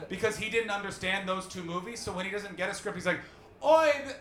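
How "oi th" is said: put-on raised, abortive Scottish accent; attempted Scottish accent. Comedian attempting Sean Connery, shaky grasp of Scottish accent. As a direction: start a Scottish accent and give up. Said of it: "I don't know how to do".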